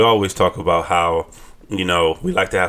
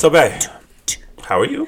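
whisper; 8 semitones higher than usual. Acted. Whispered host question.

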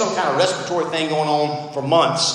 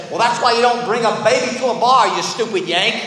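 attempted New Zealand accent, pitched up at first; New Zealand woman's accent; 5 semitones higher than usual. Woman in bar scolding American parent, New Zealand accent. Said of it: "my best impression of a New Zealander female accent".

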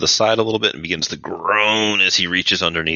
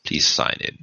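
creepy clerk. Acted.

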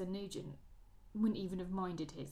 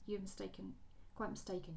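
stammered; 6 dB quieter than usual. Acted. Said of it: "she stammered".

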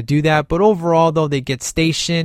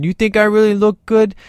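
higher, louder mock-coy voice as Death; imitating Death; 6 semitones higher, 4 dB louder than usual. The guys tease Death in a dress, mock-coy. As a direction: ham up Death fishing for a compliment. Death mocked in woman's clothes.

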